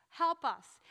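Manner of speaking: loud plea from a distance; calling out. Acted. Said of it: "yell out to Jesus".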